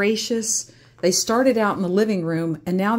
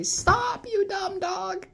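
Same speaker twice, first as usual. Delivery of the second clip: mock scolding; 13 semitones higher, slower than usual. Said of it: "That's what I would say".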